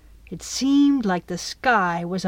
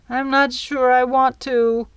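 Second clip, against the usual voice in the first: put-on hesitant little girl; 5 semitones higher, 4 dB louder than usual. Scared Midge hesitates.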